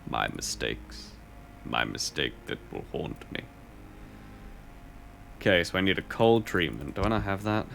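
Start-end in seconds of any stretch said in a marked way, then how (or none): 0.1-3.4 mock lament. Mock regret over past mistakes.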